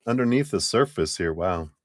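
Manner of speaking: talking past a cough drop; cough drop in mouth. Real, not acted. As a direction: mouth full of lozenge. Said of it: "leftover cough drop in my mouth".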